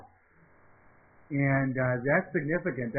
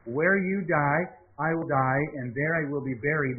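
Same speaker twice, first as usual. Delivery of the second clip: scripture reading. Acted. Pastor reading Ruth's vow to the class, building and emphatic. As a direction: proclaim it, slowing hard on your God.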